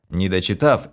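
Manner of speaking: ordinary delivery, nothing marked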